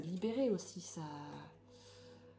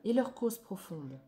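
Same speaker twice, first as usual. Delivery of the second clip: declamatory reading. Acted. Reads card text aloud.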